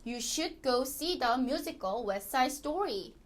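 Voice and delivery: slow English with "West Side" as "Wes-side"; model sentence for repetition. Shown as a demonstration. Teacher asks learners to repeat, slow model reading. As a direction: read it slowly, dropping the T in "West Side". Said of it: "한번 우리 따라 해볼게요".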